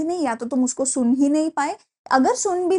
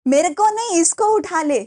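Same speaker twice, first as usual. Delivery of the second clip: higher, louder mock plea; 4 semitones higher, 3 dB louder than usual. Teacher voicing the famous line as a pleading joke, higher and louder. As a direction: cry out to be spared. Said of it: "इसका एक बड़ा अच्छा वो होता था".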